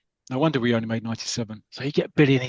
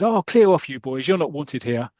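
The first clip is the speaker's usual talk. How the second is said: schoolmaster telling off; 3 dB louder than usual. Acted. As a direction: shoo the boys away with a sharp opening. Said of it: "one of the masters who's in, like, a gown goes".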